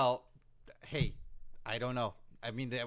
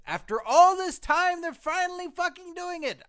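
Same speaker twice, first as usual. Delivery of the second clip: excited; 14 semitones higher, 8 dB louder than usual. Real, not acted. Co-host on the unified championship finally happening, excited. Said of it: "I'm so excited".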